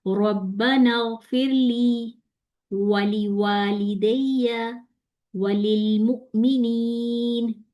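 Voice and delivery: drawn-out, chanted prayer verse; slow Quranic recitation. Shown as a demonstration. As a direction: recite slowly with tajweed. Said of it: "इसको कैसे पढ़ना है?".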